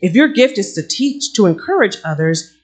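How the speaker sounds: measured, lifted Bible reading; scripture reading. Acted. Pastor reading Romans to the congregation, measured. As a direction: read the verses with conviction.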